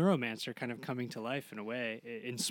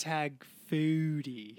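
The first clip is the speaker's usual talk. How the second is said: put-on slow, slightly higher Welsh accent; drawn-out Welsh lilt; 4 semitones higher, 4 dB louder, slower than usual. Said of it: "you do a great Welsh accent".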